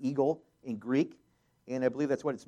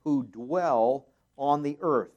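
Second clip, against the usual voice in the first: woe called out loud, then slower; preacher booming the eagle's cry; dramatic loud reading; 8 dB louder than usual. Shown as a demonstration. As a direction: proclaim the warning from a height. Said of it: "let me read this in".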